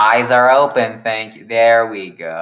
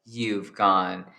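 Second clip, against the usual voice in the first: slow realization; much slower than usual. Acted. Rat Girl voiced, slowly.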